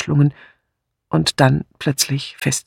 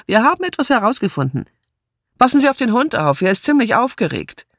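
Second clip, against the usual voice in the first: quick, higher, animated; brisk chatter; 5 semitones higher than usual. Acted. Martha hurrying Miss Marple into the car, brisk. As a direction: bustle a guest along with news.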